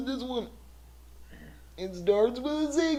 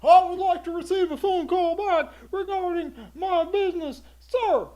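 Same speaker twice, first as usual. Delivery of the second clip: loud formal soldier report; stiff barking toy soldier; 2 semitones higher, 7 dB louder than usual. Pretend. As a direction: address the machine like an officer. Soldier voice leaving message.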